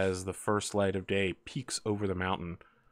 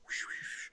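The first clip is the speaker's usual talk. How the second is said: soft, breath-only whoosh sounds; imitated whooshing; 15 dB quieter than usual. Game master mimics a wizard dwarf's spell, soft whooshing. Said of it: "and he's like".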